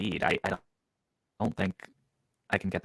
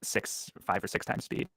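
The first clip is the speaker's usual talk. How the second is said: robotic voice; 7 dB quieter than usual. Real, not acted. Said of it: "you sound robotic".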